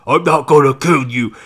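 a hint of a grim vigilante; menacing hero. Hero answering the pleading mobster, mock menace.

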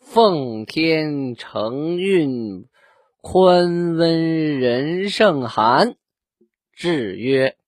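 slow, solemn decree reading; drawn out royal decree. Shown as a demonstration. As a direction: read it out like an imperial edict. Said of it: "我给大家读一下".

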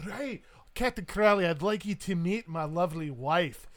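loud Scottish introduction, slowing at the end; hearty brogue with comic dread; Highland Scot. Acted. Scot introduces his lovely wife, loud Highland accent. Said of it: "this world's equivalent of a Highland Scot".

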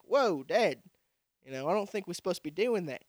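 imitating sons in a muddled Australian accent; lightly put-on Australian accent; mock Australian accent. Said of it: "I don't know why they fucking Australian".

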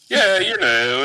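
put-on joking take on a Mid-Atlantic accent; mock Mid-Atlantic accent. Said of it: "he was doing a bit".

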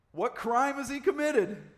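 high, slow, forceful challenge; loud demand. A narrator's reading. Pilate challenging the mob over Jesus, loudly demanding. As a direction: demand it at a near shout. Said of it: "Pilate demanded".

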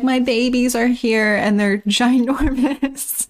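high-pitched, drawn-out mock gushing; hammed-up maternal delight, way up high; gushing mother. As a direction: squeal it like a doting mom, playfully. Mother gushing over her huge children.

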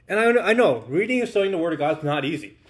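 talking around a cough drop; words slurred by a lozenge; mouth full. Real, not acted. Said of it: "I have a cough drop in my mouth".

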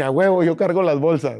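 girl voicing Ken, hammed-up. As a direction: play Ken eager to carry the bags. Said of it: "Ken dice".

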